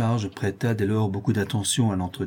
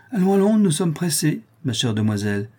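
much higher, pushy hurry-up; impatient; 5 semitones higher than usual. Acted. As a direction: rush them along, barely polite. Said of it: "avec impatience". (pressée et impatiente)

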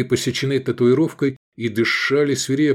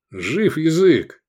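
grumbling; 5 semitones higher, 3 dB louder, much slower than usual. Acted. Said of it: "спросил Тендарит ворчливо".

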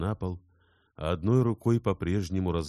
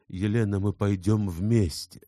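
firm declaration; 5 semitones higher, 6 dB louder than usual. Acted. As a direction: declare it like an unbreakable oath. Insarov declares resolve to Elena.

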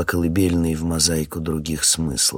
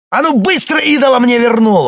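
furious, much higher, much louder yell; 13 dB louder than usual. Acted. Boyko yells at the captain to return the idol, furious. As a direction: scream the order with a gun on the line. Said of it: "орёт Бойко".

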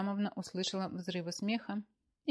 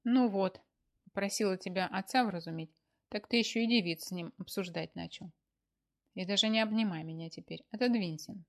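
grumbling; 5 dB louder than usual. Acted. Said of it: "Маша проворчала".

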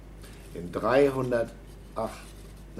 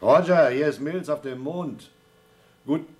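radio call; 6 semitones higher, 6 dB louder than usual. Acted. Calling Houston over radio.

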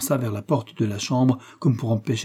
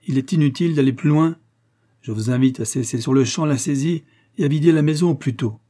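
raised, authoritative statement; firm; 4 semitones higher, 4 dB louder than usual. Acted. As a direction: lay down the order firmly. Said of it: "dit le curé avec fermeté".

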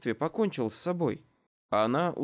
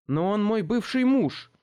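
louder, higher, a touch outraged; indignant protest; 8 semitones higher, 5 dB louder than usual. A narrator's reading. Daughter protesting to her mother about the ex-husband, indignant. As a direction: object with raised voice and pitch.

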